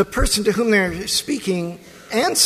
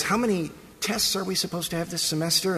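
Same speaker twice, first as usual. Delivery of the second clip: lightly voiced student, quick and softer; imitating a student; 4 dB quieter, faster than usual. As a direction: toss off an anxious student's question, fast. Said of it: "student says".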